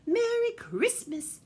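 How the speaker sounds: sing-out goodbye, high and loud; calling farewell. A narrator's reading. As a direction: call each name out grandly. Calling farewell to departing reindeer.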